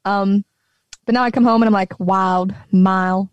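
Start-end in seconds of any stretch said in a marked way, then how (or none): 2.0-3.3 Southern "wild" and "mile" with dropped L's; Southern twang. Shown as a demonstration. Traveler back home shows Southern twang, L's dropped in wild, mile. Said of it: "I drop my L's".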